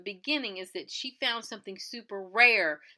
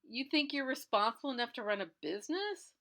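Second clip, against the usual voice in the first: higher-pitched, questioning mock challenge; mocking disbelief; 4 semitones higher than usual. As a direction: imitate someone scoffing at her ambition. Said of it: "laughing at her and mocking her".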